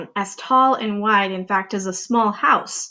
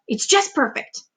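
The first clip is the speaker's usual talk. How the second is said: greedy excitement; 2 semitones higher than usual. Acted. Greedy aunt proposing.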